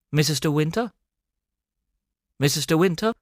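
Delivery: a faint, gruff voice on a crackling line; low curt voice. A narrator's reading. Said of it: "eine leise, ziemlich schroffe Stimme".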